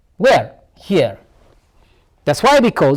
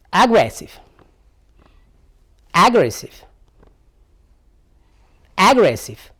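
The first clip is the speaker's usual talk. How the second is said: "Aggressive" said alone with a falling tune; "Aggressive" as an evenly spaced pronunciation example; repeat-after-me drill. Shown as a demonstration. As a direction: model "Aggressive" for learners to repeat. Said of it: "Practice after me".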